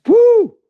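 high-pitched "woo" burst; high whoop. Real, not acted. Exclaims while preaching about deceiving voices.

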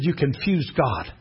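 low, slow and soft; quiet revelation. Retold or imitated. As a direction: imitate a gentle, measured pronouncement. Mother-in-law first delivers the line.

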